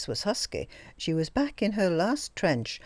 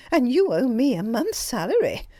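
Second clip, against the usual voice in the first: a louder, bold comeback; courageous retort; 7 semitones higher, 4 dB louder than usual. A narrator's reading. Greta answering her employer back, spirited and bold. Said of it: "with admirable courage".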